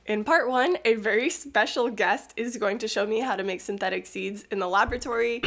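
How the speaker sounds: hoarse, sick voice; raspy from a cold; smoker's rasp. Real, not acted. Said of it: "I sound like a chain smoker".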